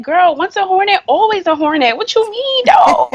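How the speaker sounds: acting out over-the-top excitement; so excited. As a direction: insist on it with giddy school pride. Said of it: "I was so excited".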